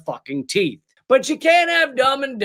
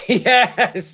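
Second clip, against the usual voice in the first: mocking laugh; scoffing laughter; 3 semitones higher than usual. Real, not acted. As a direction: laugh the yes out scornfully.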